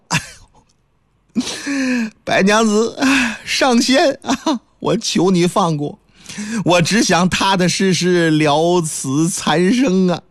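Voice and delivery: slow, crying plea for mercy; tearful begging. Acted. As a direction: beg with a sob in the voice. Xu Xuan tearfully begs. (带着哭腔哀求)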